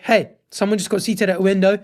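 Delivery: imagined polite complaint; a mildly puzzled, civil question; respectful query. Pretend. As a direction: voice a reasonable customer checking in. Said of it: "says it in a respectable tone".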